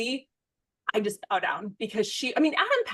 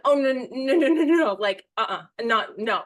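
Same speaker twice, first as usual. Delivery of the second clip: lightly raised, hurried no-no-no; flustered denial; 3 semitones higher, 3 dB louder than usual. Retold or imitated. Host mistaken for a singer, protesting in a lightly raised, hurried voice. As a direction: wave off the mix-up, a little embarrassed. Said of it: "and I'm like".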